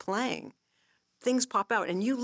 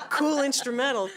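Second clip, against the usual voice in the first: laughing thought; 7 semitones higher, 6 dB louder than usual. Retold or imitated. Laughing at own retold thought.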